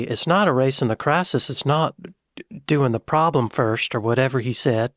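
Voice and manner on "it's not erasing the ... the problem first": imitated Texas accent; Texan accent. Shown as a demonstration. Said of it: "A Texan would say".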